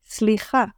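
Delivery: סליחה with samech and lamed run together; blended slicha. Shown as a demonstration. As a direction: slide from s into l in סליחה. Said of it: "So it's easy to say".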